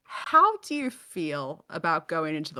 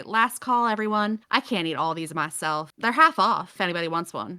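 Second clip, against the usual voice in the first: vendor calling out; 3 dB louder than usual. Acted. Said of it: "will call out and say".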